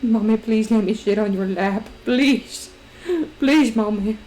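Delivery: lightly pleading dog voice begging for the lap; a mild begging pup, voiced by mom; voicing the dog Rory. Owner voicing her dog, begging to sit on her lap, lightly pleading. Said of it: "that's just what Rory sounds like".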